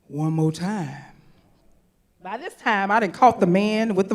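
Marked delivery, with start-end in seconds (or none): 0.1-1.0 deep soul-singer voice. Retold or imitated. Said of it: "I hear the voice again say".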